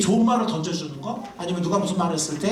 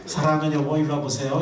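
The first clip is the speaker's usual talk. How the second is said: tender reply; 3 semitones lower than usual. Shown as a demonstration. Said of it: "이렇게 한번 해보세요".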